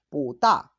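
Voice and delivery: "Bu" rising, then a loud falling "da"; bu in second tone. Shown as a demonstration. Teacher isolating the negated adjective, "Bu" rising in second tone. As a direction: raise "Bu" and drop "da" sharply. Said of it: "el tono de pu a segundo tono".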